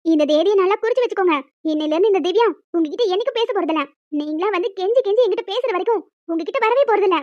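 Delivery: wife loudly vowing silence. Acted. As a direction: announce it loudly, like a solemn oath. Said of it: "ஒரு மனுஷி இப்படி நின்னு கத்திக்கிட்டு இருக்கேன்".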